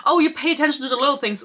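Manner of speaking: quick, mocking parroting of the line; a light sing-song mock of the heroine's catchphrase; mocking quote. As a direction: rattle it off like a tired cliché. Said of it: "she says this, like, twice or thrice".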